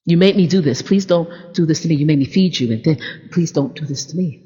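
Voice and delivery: beg, dying away; mild hurt plea from a sister; pleading. Retold or imitated. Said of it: "And she said".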